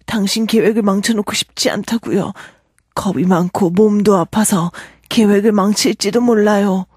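whiny frightened tramp. Acted. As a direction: beg him to leave you alone. Marvel voiced in Korean, whining.

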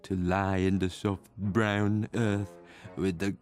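slow, longing and hushed; slow dreamy voice. Acted. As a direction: drift through it like a dream. Ghost longs for death, slow.

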